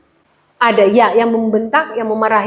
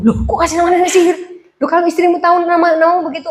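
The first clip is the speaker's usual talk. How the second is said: surprised question; 5 semitones higher, faster than usual. Retold or imitated. Retold surprised question to friend.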